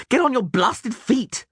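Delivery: high, drawn-out exasperated shout; troubadour's yell. A narrator's reading. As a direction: lean on each word to rouse him. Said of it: "the troubadour yelled".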